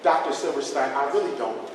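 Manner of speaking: a hint of hushed gossiping teacher; lightly voiced teacher. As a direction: play the teacher confiding in the principal. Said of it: "She go right to the principal office".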